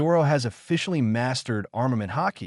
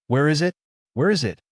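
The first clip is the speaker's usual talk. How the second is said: higher, mildly urgent repeated question; eager questioning; 5 semitones higher, 4 dB louder, faster than usual. A narrator's reading. Zoro rushing to the bow looking for the ship, eager. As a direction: ask eagerly, searching for it.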